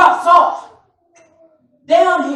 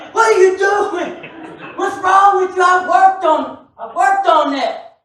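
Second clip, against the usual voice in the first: worked-up scolding, drawn out; emotional parent; slower than usual. Acted. Dad to son over a bad grade, emotional scolding. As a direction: play an exasperated parent demanding an explanation, slowly. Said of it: "I'm emotional".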